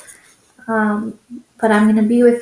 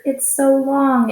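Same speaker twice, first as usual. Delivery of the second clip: mock amazement; 5 semitones higher than usual. Mock amazement at long word.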